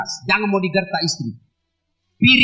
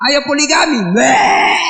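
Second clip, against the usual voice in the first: shouted punchline; 3 semitones higher, 5 dB louder, slower than usual. Acted. Crowd-pleasing shouted punchline.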